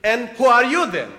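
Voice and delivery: retold caller, curious and a bit thrown; mock intrigued question. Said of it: "very intrigued".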